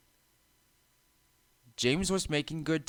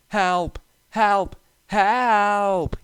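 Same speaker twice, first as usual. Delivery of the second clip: high, loud, desperate cries for help; panicked shout; 10 semitones higher, 6 dB louder, much slower than usual. A narrator's reading. Runaway engine pushed downhill, screaming in panic. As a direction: scream it as you lose control. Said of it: "he continued".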